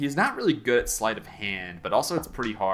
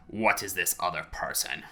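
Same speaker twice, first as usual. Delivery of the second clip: lightly voiced stiff creature; a hint of stilted creature voice; fire newt's question; 3 semitones lower, 4 dB quieter than usual. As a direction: ask it formally and a touch hushed. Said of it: "and he says".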